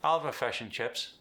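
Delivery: Kiwi "fish" with the short I relaxed toward an uh; relaxed New Zealand accent ordering "fish and chips". Shown as a demonstration. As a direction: say "fish and chips" the New Zealand way, vowels centralised like "fush and chups". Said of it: "The short I goes to the schwa sound".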